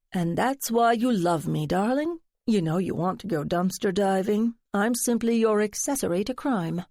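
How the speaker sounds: lightly voiced theatrical friend, coaxing; a hint of a dramatic gossip fishing for secrets; flamboyant friend. Friend teasing narrator to spill her secret, lightly flamboyant.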